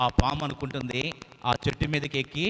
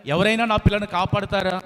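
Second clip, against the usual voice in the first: crying out for help; 4 semitones higher, 5 dB louder than usual. Acted. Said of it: "కేకలు పెడతా ఉంది".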